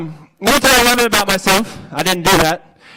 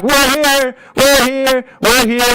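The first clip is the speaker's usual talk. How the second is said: excited; 4 semitones higher, slower than usual. Shown as a demonstration. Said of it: "we're gonna be like".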